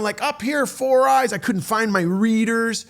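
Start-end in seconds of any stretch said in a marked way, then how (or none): 0.2-1.3 mock yell down, higher and drawn out; imitating someone hollering from a distance; imitated yell. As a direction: call it out slowly in a raised pitch. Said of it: "Jim would yell down".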